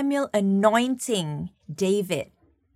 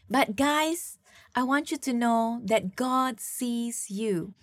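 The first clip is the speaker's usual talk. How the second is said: preaching build; 2 semitones higher than usual. Real, not acted. Preacher builds the main point.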